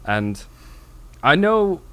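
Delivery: a hint of a posh Englishman, calm and monotone; posh British deadpan. Quoting a posh man in a Monty Python skit, mild posh British deadpan. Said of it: "delivered with such just a deadpan, like, monotone".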